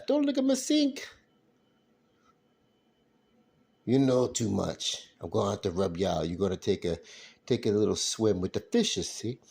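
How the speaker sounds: lightly voiced movie mobster; mock mobster threat. Mobster threatening viewer who saw the sink, mock menace. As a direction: make a playful gangster threat.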